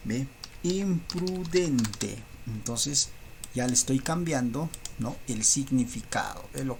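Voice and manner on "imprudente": Imprudente said very slowly, each syllable drawn out, final e held long; teacher holding the answer word; stretched out slowly. Shown as a demonstration.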